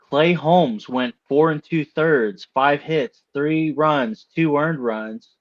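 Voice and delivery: a touch of excitement in the stat readout; mildly excited. Real, not acted. Host reads Clay Holmes's pitching line to the panel, mildly excited. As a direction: relish each figure, slow at first. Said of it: "You sound excited when you're saying that".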